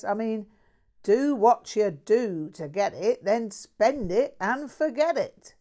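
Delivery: a mouthy London bloke bragging; lightly voiced cheeky Cockney; Cockney mate. Jack complains.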